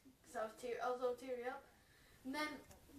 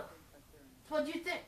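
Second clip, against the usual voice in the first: stretched out, slow and teasing; slow ominous; much slower than usual. Acted. Comic storyteller teasing the audience about the tomato, slow and ominous. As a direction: drag each word out slowly like a warning.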